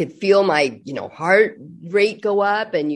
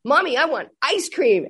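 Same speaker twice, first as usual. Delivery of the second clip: mock child tantrum; 5 semitones higher than usual. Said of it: "And he started screaming".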